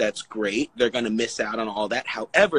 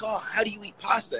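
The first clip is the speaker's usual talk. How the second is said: puzzled friends; 8 semitones higher, 4 dB quieter than usual. Retold or imitated. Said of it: "they're like".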